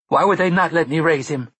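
high, loud shrill question. A narrator's reading. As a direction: rise up shrilly in protest. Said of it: "Mia asked shrilly".

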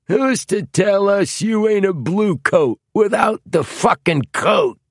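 loud, very high-pitched accusation; hostile challenge. A narrator's reading. Knifeman suspecting the buyer is police, hostile challenge. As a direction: challenge him hard, voice pushed high.

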